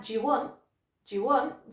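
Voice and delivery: "do you want" run together with "do you" squeezed into one quick syllable; "do you want" said as an unimportant, linked-up chunk; reduced, connected speech. Shown as a demonstration. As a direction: slur "do you" into a short "ju" before "want". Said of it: "just becomes really insignificant".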